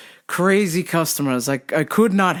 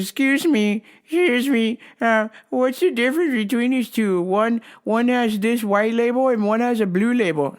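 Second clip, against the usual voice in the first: mock customer voice pitched higher; 5 semitones higher than usual. Store worker mimicking a fussy customer, higher voice.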